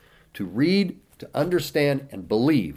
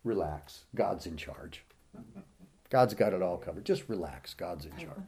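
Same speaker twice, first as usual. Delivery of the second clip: mock complacent advice; 5 semitones lower, 8 dB quieter than usual. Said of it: "what you hear sometimes".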